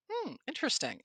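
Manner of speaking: knowing skepticism. Retold or imitated. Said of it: "were like".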